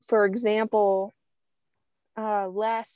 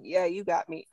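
put-on lower, softer sheepish kid; little kid voice; 4 semitones lower, 4 dB quieter than usual. Offender caving to Tiffany like a sheepish little kid. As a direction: give in like a caught little kid. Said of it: "They become this, this little kid".

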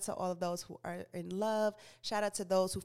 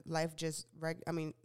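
tripping over the words; halting, stumbling reading; stuttering; 3 semitones lower, 4 dB quieter than usual. Real, not acted. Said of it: "I don't know why I'm stuttering so much".

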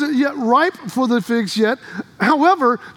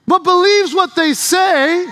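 louder, slow shout, stretching believes; preacher's shout; 4 semitones higher, 4 dB louder, slower than usual. Shown as a demonstration. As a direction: call it out for the congregation to answer. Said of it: "give me some love here".

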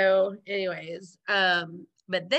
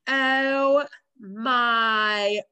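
imitating Janice; 4 dB louder, much slower than usual. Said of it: "she's like".

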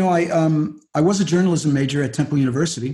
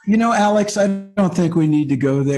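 laughing; 3 semitones higher than usual. Real, not acted. Dodging muskrat question while laughing.

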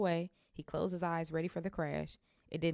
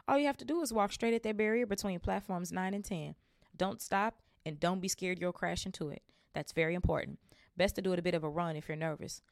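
put-on calm the anxious boy; reassuring mother; 3 semitones higher than usual.

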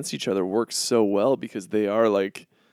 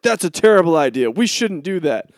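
fast, raised mocking voice of a critic; mock naysayer; 7 semitones higher, 7 dB louder than usual. Friend mocking online critics in a whiny know-it-all voice.

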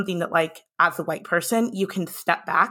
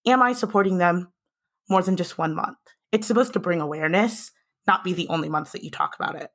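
breathless from talking nonstop; out of breath. Real, not acted. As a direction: speak while running out of breath. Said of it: "I'm running out of breath".

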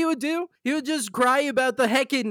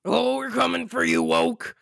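mock rally speech. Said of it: "mocking the rally speech".

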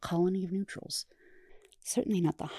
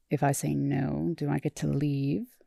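lightly voiced sulky Seeker, a touch lower; a hint of a bored, grumpy prisoner; Starscream voice; 3 semitones lower than usual. Starscream sulking at his therapist, lightly voiced grumpy.

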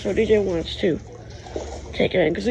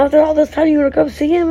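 indignant quote; 6 semitones higher, 5 dB louder, faster than usual. Retold or imitated. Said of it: "We're like".

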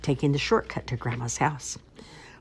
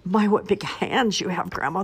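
groaning wolf; 6 semitones higher than usual. A narrator's reading. Wolf held tight by Grandma, groaning. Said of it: "the wolf groaned".

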